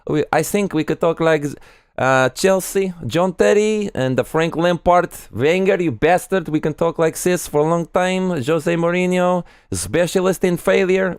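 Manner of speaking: high put-on football fan chant voice; high comic fan voice, slow on the names. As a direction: riff as a mocking football fan. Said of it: "several characters".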